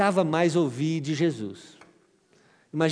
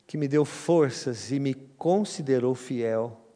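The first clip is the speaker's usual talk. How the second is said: measured, solemn Bible reading; scripture reading. Acted. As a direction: read the apostle's words with reverence. Lê a carta de Paulo. (leitura bíblica solene e pausada)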